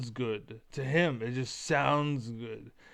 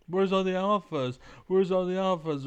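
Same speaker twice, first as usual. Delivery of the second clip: exasperated rant; 4 semitones higher, 4 dB louder than usual. Real, not acted. Ranting about alphas.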